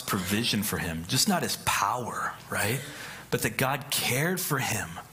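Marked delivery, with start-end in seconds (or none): 1.1-5.0 unvoiced whispered aside. Real, not acted. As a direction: breathe it as a hushed aside. Preacher drops to whisper.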